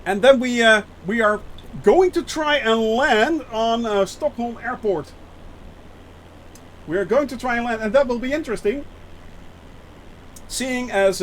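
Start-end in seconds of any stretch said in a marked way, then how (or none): 1.8-3.8 slow, drawn-out push leaning on "try"; stress on try. Real, not acted. Pilot warning viewers about a risky landing, stress on "try". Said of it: "emphasis on try". 6.9-7.8 "try" picked out, raised in pitch; stress on try. Real, not acted. Pilot repeating the doubtful landing plan to viewers, stress on "try". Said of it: "emphasis on try".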